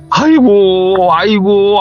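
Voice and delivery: high, drawn-out retold wail of dismay; lamenting. Father hears how sick the friends are, lamenting. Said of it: "그렇게 한탄을 하시더래요".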